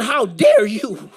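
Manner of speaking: slow, drawn-out mock outrage; frustrated indignation. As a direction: play up being offended, stretching the words. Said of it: "getting a little angry and a little frustrated".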